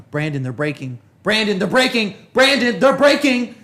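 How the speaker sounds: nagging mom building up. Retold or imitated. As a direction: mom nagging, rising to a near yell. Mom nagging from back seat, building.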